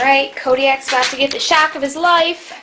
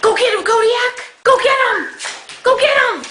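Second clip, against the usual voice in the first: calling out; 9 semitones higher than usual. Real, not acted. Urging the dog on.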